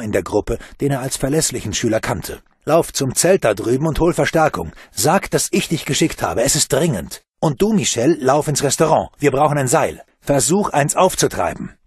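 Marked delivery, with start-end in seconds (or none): 2.6-11.8 urgent orders. Acted. Bruno urgently commands children.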